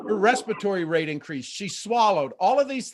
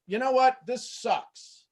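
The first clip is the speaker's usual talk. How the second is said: higher, disgruntled "This sucks" that drops off at the end; fed-up remark; 7 semitones higher, slower than usual. Shown as a demonstration. Coach demonstrating a client's annoyed reaction, mock disgruntled. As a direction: play the annoyed caller, then let it fall away. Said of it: "So if I went".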